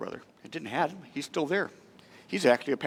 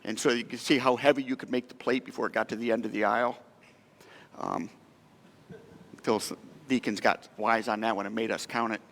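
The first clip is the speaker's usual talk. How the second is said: ordinary delivery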